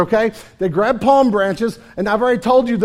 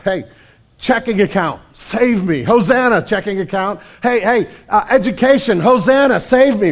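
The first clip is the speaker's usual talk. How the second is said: a mild mock plea that builds to a louder call; hammed-up begging to money and schooling, getting louder; mock crying out; 4 dB louder than usual. Preacher imitating people crying out to idols, mock pleading getting louder. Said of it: "And that you're crying out".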